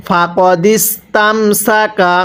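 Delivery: slow ফাকদিস্তামসাকা with a thin, light সিন; thin sin. Shown as a demonstration. A teacher shows students the thin সিন, slow recitation. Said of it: "সিনটা চিকন করে উচ্চারণ করব।".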